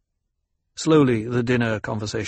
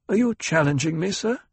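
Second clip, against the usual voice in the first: pitched-up, measured question; a touch of menace under the courtesy; 6 semitones higher than usual. Acted. Ecologist confronts the banker calmly, lightly challenging.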